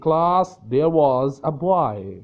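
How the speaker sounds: slow, loud call to the class, stretching each word; a teacher calling the class to attention; teacher addressing class. Shown as a demonstration. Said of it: "I would say". (Class को धीमी, ऊँची आवाज़ में पुकारता teacher)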